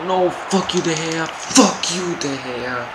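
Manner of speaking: high yelling at the keeper; half-playful shout of annoyance; mock angry yell. Real, not acted. Keeper stops his shot.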